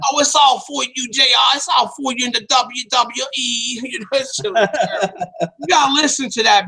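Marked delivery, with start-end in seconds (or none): 0.1-3.8 Vince Russo. Retold or imitated. Podcaster mimicking a fawning guest, gushing. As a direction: lay on the mock flattery. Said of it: "Vince said".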